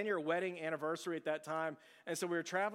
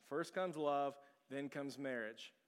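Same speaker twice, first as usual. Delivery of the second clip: slow and softer, still not getting "First comes love, then comes marriage"; slow, puzzled reading; 3 semitones lower, 5 dB quieter, slower than usual. Retold or imitated. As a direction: sound the words out blankly, "then comes marriage" slowest. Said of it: "It takes me a little longer".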